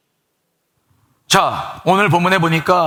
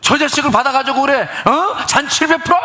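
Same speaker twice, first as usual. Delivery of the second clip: high-pitched indignant outburst at father; elder son yelling at his father about the feast; acted shouting; 6 semitones higher than usual. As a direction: hurl the grievance at him. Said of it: "막 소리 지르는 거죠".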